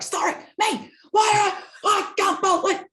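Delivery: high, disbelieving laughing squeal; shocked high-pitched protest with a laugh; incredulous mock protest. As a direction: play the wounded parent, all innocence. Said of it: "And I'd be like".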